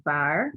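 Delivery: "var" with a soft V for the B; soft bet. Shown as a demonstration. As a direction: say "var" starting like the V in vine. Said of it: "it's because the soft pronunciation".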